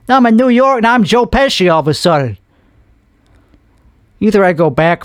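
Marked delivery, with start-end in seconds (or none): 0.1-2.4 put-on lightly done New York accent; New Yorker accent. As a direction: slip into a mock New Yorker. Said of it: "Now I'm doing a New Yorker".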